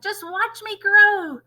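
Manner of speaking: put-on high, loud, slow old-crone cry, half laughing; cackling grandma. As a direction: crow it out like a triumphant old witch. Voices Grandma.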